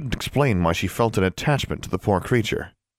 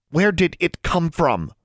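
high, slow, tightly held question; 9 semitones higher, slower than usual. A narrator's reading. Alarmed roommate asks about the snake, very tight voice. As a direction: ask it slowly in a tight, raised voice. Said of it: "in a very tight voice".

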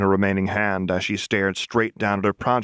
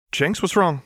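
higher, anxious asking; worried question; 9 semitones higher than usual. Acted. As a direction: call out in concern. Lux worried about Jinx.

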